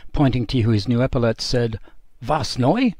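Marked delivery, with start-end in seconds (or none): 2.2-2.9 comic surprise. Retold or imitated. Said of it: "with a comic look of surprise".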